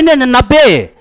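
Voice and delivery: hammed-up student correcting himself firmly; mock student shout. Student blurting his marks to the teacher, mild mock shout. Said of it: "एकदम जोर से बोलेगा, चिल्ला कर करके".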